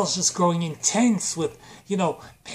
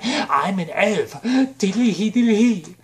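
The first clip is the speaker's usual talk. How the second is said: sing-song elf, building louder; silly elf voice; 3 semitones higher, 4 dB louder than usual. Acted. Orlando Bloom voiced as elf.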